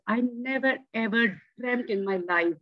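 usual speaking voice

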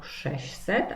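"sześćset" as sześ-set, without ć; simplified pronunciation. Shown as a demonstration. Teacher explaining the omitted sound to pupils, "sześćset" said as sześset. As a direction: drop the ć in "sześćset", keep the ś. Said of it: "opuścić głoskę ci".

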